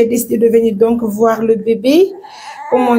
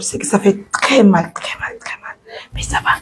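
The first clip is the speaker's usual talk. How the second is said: softly whispered, repeating the pain; whispered sympathy; 4 dB quieter than usual. Real, not acted. Caregiver telling the baby it hurts, whispering.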